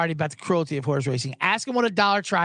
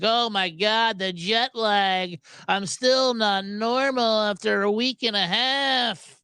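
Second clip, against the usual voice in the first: 1 jet-lagged whine; 3 semitones higher, slower than usual. Retold or imitated. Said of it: "We're like".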